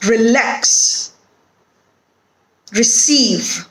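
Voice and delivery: each word from "Relax" to "Behind" stressed on its second syllable; light first syllable, strong second, "Relax" through "Behind". Shown as a demonstration. Teacher asking where stress falls, "Relax" to "Behind" end-stressed. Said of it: "It is on the second syllable".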